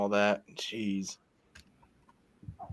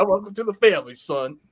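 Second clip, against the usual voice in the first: Jack Baker quote; 3 semitones higher than usual. Retold or imitated. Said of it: "Jack Baker".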